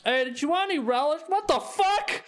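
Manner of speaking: high-pitched question jumping into an alarmed yelp; escalating high, startled exclamation; shocked outburst. Acted. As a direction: play the vendor stunned mid-question. Vendor discovers car on fire.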